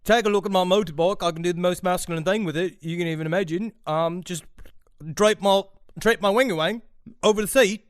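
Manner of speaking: mock Yorkshire accent; hammed-up bad Yorkshire accent. Shown as a demonstration. Practising the line for his co-hosts, in a mock Yorkshire accent. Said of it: "the sentence that you wanna practice".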